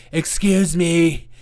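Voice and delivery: slow, offended "Excuse me" with a falling end; angry leftist voice. Retold or imitated. Mocking an angry leftist, slow offended repeat. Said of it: "That's my angry leftist voice".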